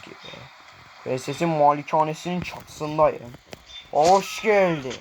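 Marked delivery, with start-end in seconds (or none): 3.9-4.9 slow, theatrical welcome; drawn-out greeting. Pretend. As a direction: stretch out the welcome in your own voice. Greeting the boss, first take.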